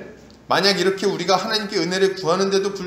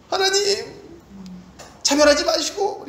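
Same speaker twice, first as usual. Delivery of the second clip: high, drawn-out prayer; earnest pleading; 11 semitones higher, slower than usual. Acted. Preacher demonstrating a prayer to God against favoritism, pleading earnestly. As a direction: implore in a raised, stretched voice. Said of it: "간절히".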